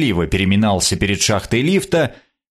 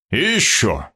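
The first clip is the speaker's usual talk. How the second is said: cut off mid word. A narrator's reading. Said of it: "Он прервал себя на полуслове".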